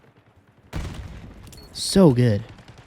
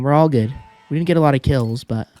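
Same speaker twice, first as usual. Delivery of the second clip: normal talking voice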